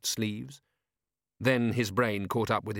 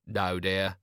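henpecked husband; 3 semitones lower than usual. A narrator's reading. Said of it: "henpecked voice".

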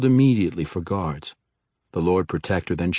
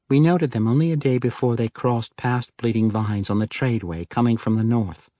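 higher woman's voice, informative; 4 semitones higher than usual. Acted. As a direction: report it as the wife.

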